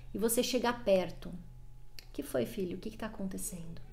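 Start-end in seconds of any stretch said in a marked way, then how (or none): 2.1-3.8 put-on much softer and lower, gently asking the child; soft, calm, low question to a son. Shown as a demonstration. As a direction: settle a yelling kid with a soft low voice. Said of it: "você vai baixar seu tom de voz".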